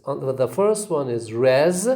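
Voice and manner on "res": "res" set apart as a stressed syllable. Shown as a demonstration. Teacher splits up resignation, "res" stressed on its own. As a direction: isolate "res" as its own beat. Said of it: "we have two stresses".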